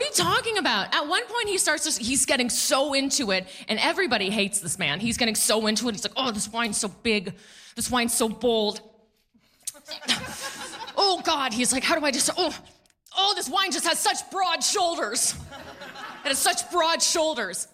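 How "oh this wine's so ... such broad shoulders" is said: gushing wine snob. Retold or imitated.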